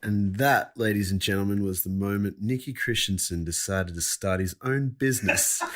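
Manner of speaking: grand showman's punchline; mock announcer. Co-host capping a guest's snake story, mock-grand announcer. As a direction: wrap it up like a playful master of ceremonies.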